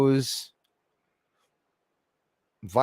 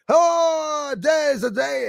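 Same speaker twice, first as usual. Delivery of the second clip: imitating a man's rowdy arrival, high and drawn-out; mock holler, starting high and long; mimicked entrance; 13 semitones higher, 4 dB louder than usual. Mimicking the man as he comes in, high mock holler. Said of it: "He comes in".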